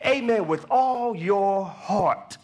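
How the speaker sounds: high, urgent preacher's appeal; preaching. Real, not acted. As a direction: preach it out to the congregation.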